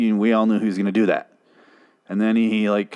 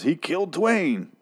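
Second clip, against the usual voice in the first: raised pitch, drawn out slowly; high slow delivery; 7 semitones higher, slower than usual. Retold or imitated. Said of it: "Morgan, um, accidentally, um, says".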